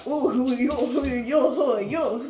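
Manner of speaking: sing-song it lightly in a put-on French accent. Friends question a newcomer in a French accent. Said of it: "This is in the French accent".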